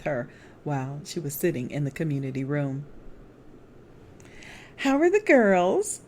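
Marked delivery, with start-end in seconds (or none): 4.8-6.0 put-on high, lilting old lady asking; a sweet elderly woman's question, much higher; the widow friend's voice. A narrator's reading. Elderly widow greets her friend, high and sweet. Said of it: "she asked".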